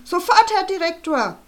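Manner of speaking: laut und hoch herausgekeucht; keuchend. Acted. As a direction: schnauf es atemlos heraus. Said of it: "einem keuchenden". (Sportlehrer ruft keuchend dem Direktor zu)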